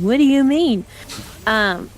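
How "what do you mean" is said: baffled. Real, not acted. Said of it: "I was like".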